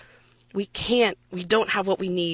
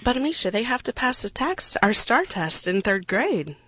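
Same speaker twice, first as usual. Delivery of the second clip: sarcastic; 3 semitones higher than usual. Pretend. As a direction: feign an objection with a touch of sarcasm. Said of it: "A little bit of sarcasm there".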